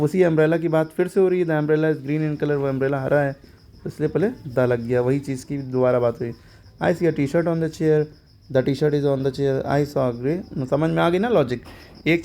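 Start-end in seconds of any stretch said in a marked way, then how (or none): 1.5-2.6 slow, careful English example; slow example reading. Shown as a demonstration. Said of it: "example sentence read out". 6.8-10.7 slow, careful English example; slow example reading. Shown as a demonstration. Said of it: "example sentences read out".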